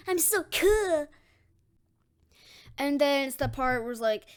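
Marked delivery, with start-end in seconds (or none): 0.1-1.1 high, loud, drawn-out boast; excited bragging. Acted. Deku delighted with his new friend, excited. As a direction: stretch it out high with glee.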